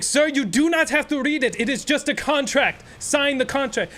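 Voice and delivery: mock clerk, high and pressing; impatient clerk. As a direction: rush the customer to sign. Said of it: "He's like".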